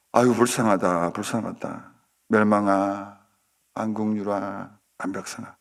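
mild pity, fading away; murmured sympathy trailing into softness; pitying villagers. Acted. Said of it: "불쌍히 얘기를 했죠". (불쌍해하며 점점 잦아드는 말투)

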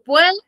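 "puerta" held high on the first syllable, PUER. Shown as a demonstration. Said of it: "mi voz va bajando".

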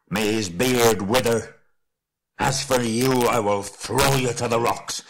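angry oath building to a loud threat; raging dwarf lord. Acted. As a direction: curse slowly, then rise to loud fury. Thorin curses and threatens Bilbo.

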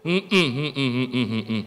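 acted string of low grunts; absent-minded husband's low hums; low repeated hmm. Husband half-listening to wife's hints, low hmms.

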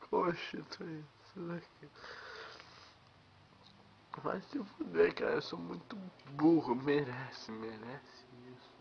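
tipsy, rambling at himself. Real, not acted. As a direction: mutter like you've had a few. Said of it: "Tô bêbado já".

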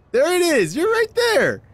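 high, loud cry of disbelief; exasperated shout. Real, not acted. Player shrieking at a clue that was there all along. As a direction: shriek it at the screen.

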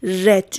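"رد" said as English "red", short e; slow English past-tense "رد", vowel as in "met"; past-form pronunciation. Shown as a demonstration. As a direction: say "رد" slowly, rhyming with "bed". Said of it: "تلفظش".

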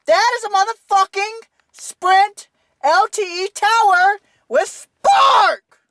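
slow, furious shout; ranting. Real, not acted. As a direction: bite off the swear in disbelief. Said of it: "But I'm gonna rant".

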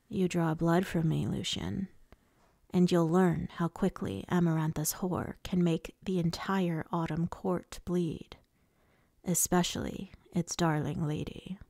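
lightly voiced menacing lord. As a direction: threaten in an understated villain voice. Voices Rhysand threatening Lucian.

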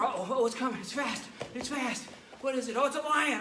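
put-on high, loud, thrilled storytelling for kids; kids' karate coach narrating an imaginary jungle run; excited jungle run. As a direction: lead the pretend adventure with big energy.

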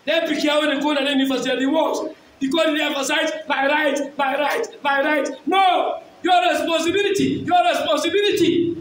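emphatic, declamatory sermon voice; forceful preaching. Real, not acted. Preacher urging parents to take education seriously, forceful preaching. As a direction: preach it hard to the congregation.

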